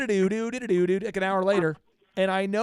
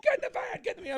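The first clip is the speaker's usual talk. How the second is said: A-Team shout; 3 dB quieter, faster than usual. Retold or imitated. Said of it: "It was like the A-Team".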